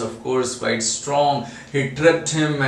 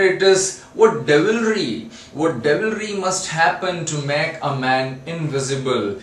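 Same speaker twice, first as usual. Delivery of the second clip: horrified exclamation; 5 semitones higher than usual. Acted. Kemp horrified at devilry.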